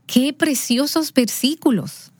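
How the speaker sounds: put-on high, slow, gushing praise to the boy; delighted praise. Aunt praising the verses to her nephew, slow and delighted. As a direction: gush over the verses like they're a treasure.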